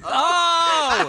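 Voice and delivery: surprised cry. Real, not acted. Reacts to period apology.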